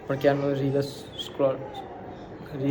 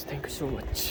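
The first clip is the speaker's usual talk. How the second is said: thanks dropped much softer, almost under the breath; soft thank you; 11 dB quieter, much slower than usual. Real, not acted. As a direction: let the second thanks fall away softly. Thanking viewers twice over. (ધીમા અવાજે આભાર)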